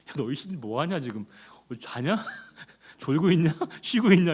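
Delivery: mocking taunt. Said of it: "엘리야가 뭐라고 조롱하죠".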